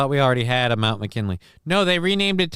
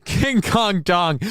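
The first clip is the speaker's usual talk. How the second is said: slow drawn-out; 8 semitones higher, 3 dB louder, much slower than usual. Acted. Slow joking call.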